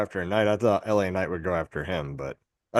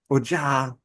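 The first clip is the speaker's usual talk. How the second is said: German accent; 3 semitones higher than usual. Shown as a demonstration. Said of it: "I just said it in a German accent".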